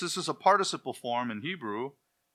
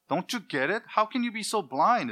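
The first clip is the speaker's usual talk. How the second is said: lightly voiced scoffer, higher pitch; mocking skeptic; 9 semitones higher, 4 dB louder than usual. Preacher imitating an unbeliever's scoffing, a hint of mockery. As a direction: toss it off like a doubter mocking the faithful. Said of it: "is what they accuse the faithful of".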